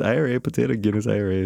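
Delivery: run-on list in mock Irish; mock Irish gabble. Co-host imitating all he hears from Irish guys, mock Irish gabble. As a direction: rattle off stereotype Irish words as one stream. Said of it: "That's all I hear".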